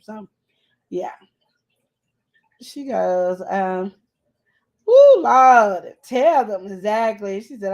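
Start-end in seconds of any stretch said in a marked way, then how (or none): 4.9-6.7 fervent exclamation. Retold or imitated. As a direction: testify it out like an amen. Reads a listener's comment with exclamation.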